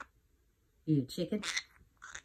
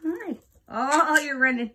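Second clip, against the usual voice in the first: high-pitched coo; 9 semitones higher, 6 dB louder than usual. Real, not acted. Delighted high coo to bird.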